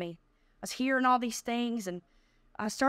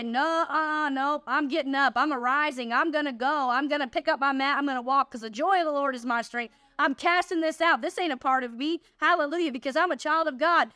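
declaring victory; 3 semitones higher than usual. Shown as a demonstration. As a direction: rise up and proclaim it with joy. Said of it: "you say".

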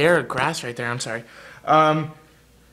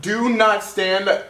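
mock sign read. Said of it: "this says".

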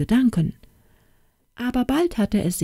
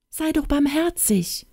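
hen pleading; 9 semitones higher than usual. Acted. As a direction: beg for mercy like a frightened hen. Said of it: "flehte die Henne".

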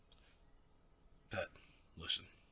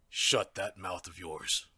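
slow menace; 3 dB louder, slower than usual. Acted. Villain silences the captive.

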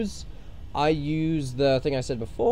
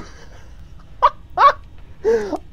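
high laugh. Pretend. High cackle between yelled exclamations.

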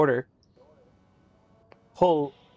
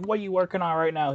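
lightly imitated pestering boss, pitched up; higher mocking voice for a manager's question; mock demanding manager; 4 semitones higher than usual. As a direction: put on a slightly whiny boss. Mimics manager butting in over radio.

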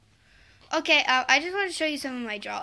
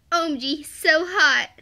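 mock excited squeal; 3 semitones higher, 9 dB louder than usual. Voicing drawn character's line.

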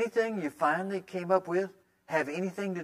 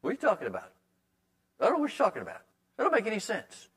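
mock disbelief; 4 semitones higher, faster than usual. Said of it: "look at you and say".

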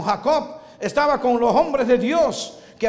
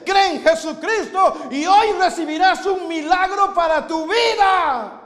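fervent appeal; 6 semitones higher, slower than usual. Real, not acted. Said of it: "altar call".

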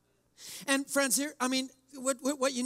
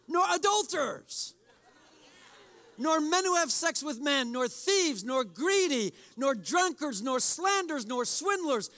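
Pharisaical reading; 4 semitones higher than usual. Shown as a demonstration. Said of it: "Little Pharisaical".

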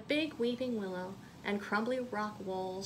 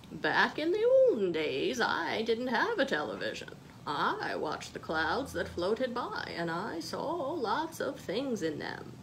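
grandma's advice. Acted. Grandma telling Molly about the olden days, lightly voiced. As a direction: tell it like a fond grandma remembering. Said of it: "Her grandma had told her".

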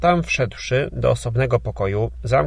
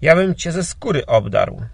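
put-on old man shouting, louder and higher; a raised, threatening cry; 5 semitones higher, 4 dB louder than usual. A narrator's reading. Old master shouts at Wawrzon over drowning Marysia. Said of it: "krzyknął".

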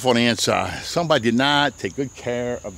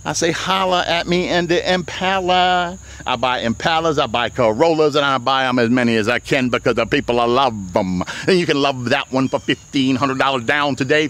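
announcer voice. Shown as a demonstration. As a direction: sell it like a radio announcer. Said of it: "That's my announcer voice".

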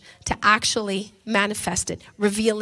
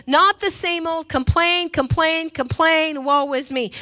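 mocking whine; 5 semitones higher, 3 dB louder than usual. Mocking the complainer.

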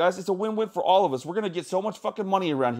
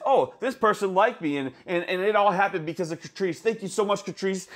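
mock gushing commenter; 4 semitones higher than usual. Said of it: "a comment that says".

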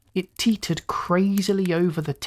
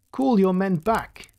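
raised, firm order; crisp command; 4 semitones higher than usual. A narrator's reading. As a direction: give a brisk officer's command. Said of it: "he commanded crisply".

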